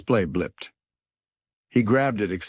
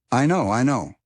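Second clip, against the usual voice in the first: impatient; 7 semitones higher, 5 dB louder than usual. A narrator's reading. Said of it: "said the distant voice impatiently".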